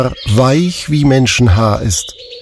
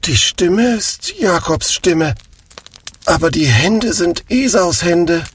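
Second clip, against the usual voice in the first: put-on plaintive old father, softer; troubled lament; a touch of a lament from the blind father; 5 semitones higher, 3 dB quieter than usual. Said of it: "und er klagte".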